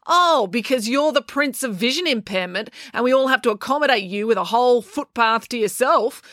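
April mocking the boy sarcastically; sarcastic. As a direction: pour on the sarcasm. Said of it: "said April sarcastically".

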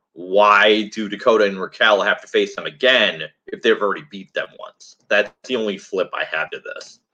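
muffled like underwater; bad mic, muffled and underwater; underwater sound. Real, not acted. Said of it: "Sounds like you're underwater".

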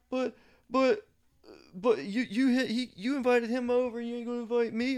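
high whiny pleading voice; high-pitched whiny buddy; whiny friend. Retold or imitated. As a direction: mimic a whining friend begging to come.

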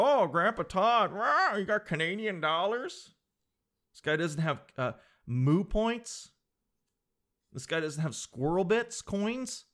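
put-on high, teasing kid voice, slowed; mocking young kid. Young store clerk mocking old Todd, teasing kid voice. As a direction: sneer like a smug young kid. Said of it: "And they go".

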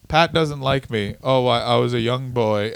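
a hint of a haunted storyteller, low; Rowdy Roddy Piper. Wrestler recalling his youth, lightly impersonated in a low voice. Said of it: "The Rowdy Roddy Piper".

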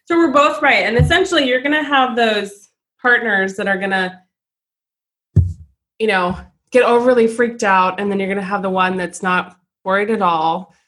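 breathless after running stairs; winded, catching breath between words. Real, not acted. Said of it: "I'm really out of breath 'cause I ran downstairs and ran upstairs".

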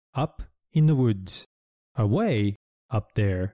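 slow storybook reading; slow story line. Shown as a demonstration. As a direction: read slowly like a picture book. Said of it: "絵本に出てきたセンテンスは".

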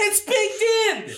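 high, drawn-out goofy holler; hammed-up yell. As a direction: draw it out high, playing up the gag. Yelled running gag.

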